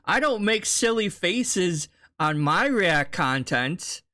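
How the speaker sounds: a hint of parody in the denial; mocking imitation. Reactor parrots the streamer's denial about silly faces, mocking.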